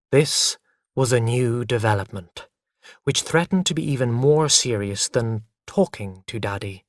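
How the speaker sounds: usual speaking voice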